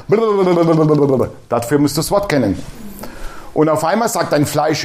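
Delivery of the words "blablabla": slow, drawn-out blablabla; mock blabber. Mocking rote confessions, slow dismissive blabber. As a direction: stretch it out dismissively. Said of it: "mocks the rattled confession".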